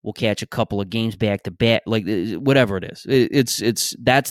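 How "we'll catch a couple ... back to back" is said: lightly imitated Philadelphia accent; casual Philly local, usual pitch and volume; a hint of a Philadelphia accent on the vowels. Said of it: "she does a premium Philly accent".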